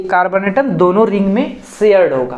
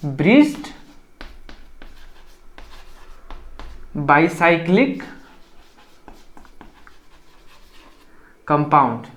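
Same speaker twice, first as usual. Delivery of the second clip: slow, spaced term; 4 semitones lower, 5 dB quieter than usual. Shown as a demonstration. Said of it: "उसको क्या बोलते हैं?".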